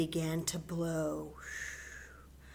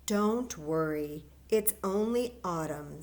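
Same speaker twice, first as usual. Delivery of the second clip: smiling reassurance. Acted. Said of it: "smiled Mommy".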